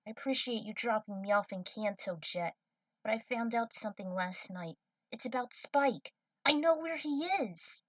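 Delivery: lightly voiced young cadet, urgent; young cadet pleading with her crewmates; Trudy's voice. Trudy explains her news.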